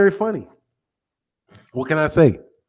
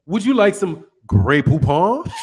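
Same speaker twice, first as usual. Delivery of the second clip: lightly voiced British butler, rising at the end; mock British butler; 2 semitones lower than usual. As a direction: offer it like a refined British servant. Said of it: "they'll give them a British accent".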